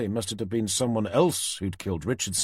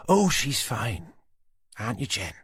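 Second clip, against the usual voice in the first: Susan's taunting voice; 2 semitones higher than usual. A narrator's reading. Susan sneering at Tanner over her hostage.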